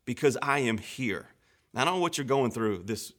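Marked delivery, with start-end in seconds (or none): 0.0-1.3 reassuring. Acted. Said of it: "But he says".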